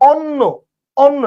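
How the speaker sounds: অন্ন with an open aw sound, awnno; অন্ন pronounced awnno, not onno; open o demo. Shown as a demonstration. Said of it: "এটা কিন্তু অন্য না".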